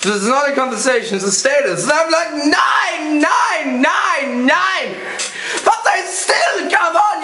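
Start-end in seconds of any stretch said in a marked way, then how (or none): 2.3-4.9 German protest. Retold or imitated. Repeats the German man's protest.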